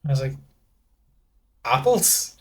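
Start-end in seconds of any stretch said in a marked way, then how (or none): 1.6-2.4 high rising unsure Apples?; clueless rising reply; unsure guess. Retold or imitated. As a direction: guess the answer like a question. Unsure answer to sommelier.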